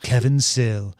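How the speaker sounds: put-on twenties radio guy with mid-Atlantic accent; vintage mid-Atlantic car ad read. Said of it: "somewhere from Oxford accent to Mid-Atlantic".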